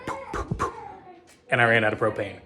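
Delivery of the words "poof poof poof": imitated poof. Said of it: "I heard".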